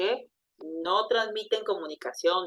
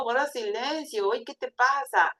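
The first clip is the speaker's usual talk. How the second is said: mock reproach; 4 semitones higher than usual. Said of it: "como diciendo".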